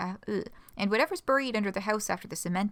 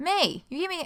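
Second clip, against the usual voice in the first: acted frustrated line read, higher pitch; 8 semitones higher, 4 dB louder than usual. Reading a scripted line aloud: acted frustration. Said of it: "I read that as more frustrated".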